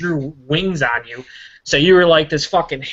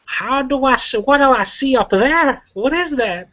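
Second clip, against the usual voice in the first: baffled surprise; 12 semitones higher, slower than usual. Real, not acted. Spotting the odd picture.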